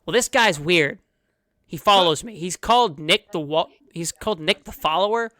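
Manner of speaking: a touch of exasperation at the odd follower; frog introducing a friend. Acted. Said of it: "he looks over to his right and he goes".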